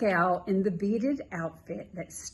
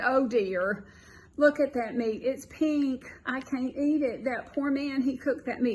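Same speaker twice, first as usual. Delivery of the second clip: put-on a light Southern accent, a little higher; 4 semitones higher than usual. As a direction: lightly imitate her young Southern accent. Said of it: "very annoying Southern accent".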